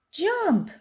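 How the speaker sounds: high pirate yell. A narrator's reading. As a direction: command him off the plank. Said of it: "yelled the pirates".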